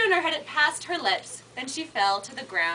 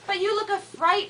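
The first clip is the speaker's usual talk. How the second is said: put-on old witch; 6 semitones higher than usual. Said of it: "the old witch said".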